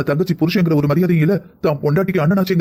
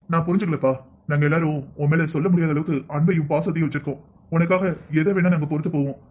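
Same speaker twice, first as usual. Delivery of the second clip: softer, heartfelt and sorrowful; tender regret; 5 dB quieter than usual. Acted. Grandfather telling grandson his love and regret, soft and sincere. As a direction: speak gently from a hurt heart.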